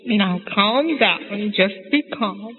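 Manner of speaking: slow, drawn-out soothing words; lightly acted father calming his wife; Papa calming Mama. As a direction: stretch it out to settle her down. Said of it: "How does he say it?".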